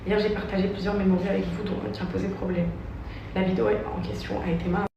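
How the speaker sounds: measured, careful statement reading. Acted. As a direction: read it like a prepared apology. Reads her written statement.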